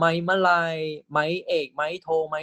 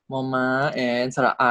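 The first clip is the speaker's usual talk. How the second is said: quick run-through; much faster than usual. Shown as a demonstration. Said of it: "this is มอม้า".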